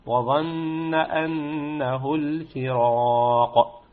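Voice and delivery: slow, chanted وظن أنه الفراق; Quran recitation. Shown as a demonstration. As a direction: recite it like tajwid practice. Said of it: "في سورة القيامة". (تلاوة مرتلة ببطء)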